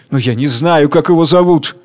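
mildly alarmed admission; a touch of fear, faltering confidence; frightened. Acted. Worker admits ignorance to the crowd, frightened. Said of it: "Испугавшись".

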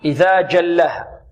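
إذا جلها slow, with a firm stopped j; correct hard jeem. Shown as a demonstration. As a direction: recite جلها slowly with a hard "j". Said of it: "نعم".

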